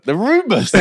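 high, laughing exclamation; mock-dramatic laughing echo. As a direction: crow it in mock scandal, breaking into laughter. Mockingly echoes the rumours, laughing.

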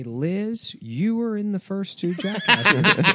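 high, earnest mock politician with laughter; Elizabeth Warren. Senator recalls grandmother's story, high mock-earnest impression. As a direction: lift the voice like a candidate defending family lore.

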